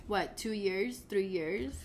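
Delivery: hoarse from a cold; sick voice. Real, not acted. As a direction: talk through a sore throat. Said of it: "my throat is all fucked up".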